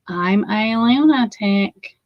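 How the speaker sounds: "I'm a lunatic" drawn out slowly, each word weighed; slow it right down on "lunatic"; slow emphasis. Shown as a demonstration. Repeating it to viewers, slow and deliberate.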